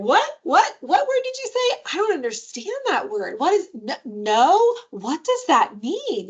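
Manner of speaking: high-pitched mock bafflement, swooping up; playful. Shown as a demonstration. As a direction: play the comically puzzled parent. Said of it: "just kind of being playful with them".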